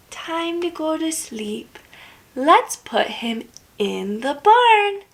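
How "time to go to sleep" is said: hushed. Acted. Bedtime hush.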